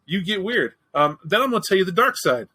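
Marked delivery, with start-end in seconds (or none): 0.1-0.7 "weird" said higher, with a falling end; a higher comic echo of "weird"; higher repeat. Shown as a demonstration. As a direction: lift the repeat up and drop on "weird". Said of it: "repeated for emphasis".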